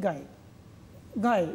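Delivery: গায় as one syllable, ending in gliding e; spoken half vowel. Shown as a demonstration. Teacher modelling the word for pupils, half vowel. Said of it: "কিন্তু কি বলছি".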